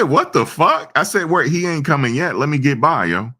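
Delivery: high-pitched outraged protest; indignant yell. Retold or imitated. Teller protests to the bodyguard blocking the street, high indignant yell. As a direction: squeak out your disbelief at the bodyguard.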